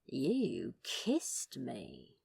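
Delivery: slow, low teasing purr; seductive tease. Acted. Crowley teasing the angel about the kiss, slow and low. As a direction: draw it out slowly to tease. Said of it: "in as seductive a tone as he could muster".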